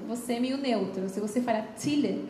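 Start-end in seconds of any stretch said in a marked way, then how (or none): 1.8-2.3 Chile with a strongly marked t, close to "ti-le"; Chile with a hard T. Shown as a demonstration. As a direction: hit the T in Chile so it sounds almost like "tile". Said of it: "um pouquinho mais marcada pra T".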